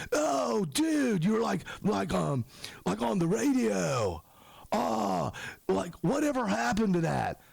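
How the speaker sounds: high, halting dude voice; amazed fan. Retold or imitated. Fan asks about the radio show, amazed. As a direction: imitate a fan dredging up a memory. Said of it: "one or two dudes where it's like".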